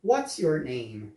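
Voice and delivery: "What's your name?" pausado, sílaba por sílaba; bem devagar. Shown as a demonstration. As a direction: diga bem devagar para o aluno repetir. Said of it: "a pergunta completa fica". (pergunta em inglês americano, bem lenta)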